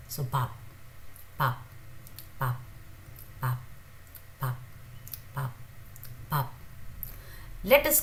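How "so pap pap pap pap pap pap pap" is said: pap with a forced first p and soft B ending; pronunciation demo. Shown as a demonstration. Teacher drilling pap for students, careful. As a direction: repeat pap, forced start, soft end. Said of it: "a soft B".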